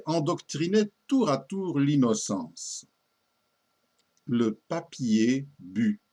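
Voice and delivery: slow, measured verse reading with lilting pitch; poem recitation. Acted. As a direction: recite old verse in careful, drawn-out phrases.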